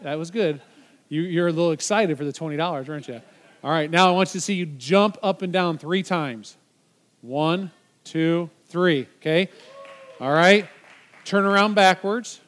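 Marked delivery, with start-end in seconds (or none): 3.6-12.4 calling out instructions. Real, not acted.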